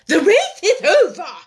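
high, loud announcement; called out. A narrator's reading. The Dodo calls out to the runners, loud. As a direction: call it out across the field. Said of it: "suddenly called out".

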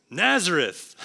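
scoffing exclamation with a chuckle after; chuckling disbelief. Shown as a demonstration. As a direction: exclaim it in amused doubt. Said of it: "You gotta say it with a little bit of a chuckle".

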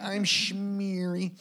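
very slow, high, laughing silly voice; a goofy put-on voice through laughter; millennial impression. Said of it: "Was that your millennial impression?".

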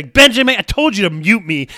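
half-joking angry yell of a name, high and loud at the start; mock angry outburst. Scolding co-host Benjamin for not muting him, mock angry yell. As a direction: blurt the name like you've had it with him. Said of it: "'Cause I'm all angry".

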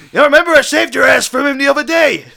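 loud, high indignant reminder; acted exasperated protest. Detective argues at gunpoint.

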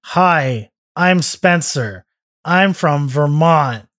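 put-on slow, deadpan Vermont accent that sounds like nobody; a Vermont accent that is just a plain guy. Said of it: "you want me to do a Vermont accent".

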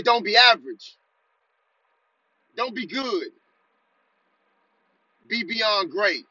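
firm call-and-response chant, each line punched; like you mean it. Shown as a demonstration. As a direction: lead the crowd with conviction. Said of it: "Say it like you mean it".

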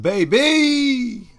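high, loud, stretched-out holler; hype shout. Real, not acted. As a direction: punctuate the intro with a big yell. Co-host hypes the show intro.

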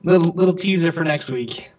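echoing. Real, not acted. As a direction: voice ringing in a big room. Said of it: "You sound like you're echoing a little bit".

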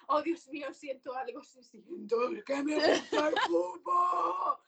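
hammed-up, slow dreamy confession; mock swoon. Podcaster mocks a girl suddenly loving football, slow hammed-up swoon. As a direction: gush it out like a mock revelation.

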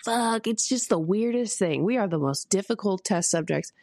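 lightly imitated Southern accent; Southern accent mentor. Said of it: "in her Southern accent".

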